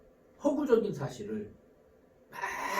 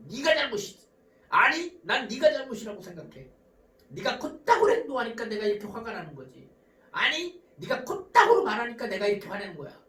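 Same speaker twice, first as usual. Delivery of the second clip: trading blame with bursts of louder stress; mock quarrel; 3 dB louder than usual. Couple blaming each other in an argument, acted aggressively. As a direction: act out a couple's attacking back-and-forth. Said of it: "서로 공격적인 언어들이 오갑니다".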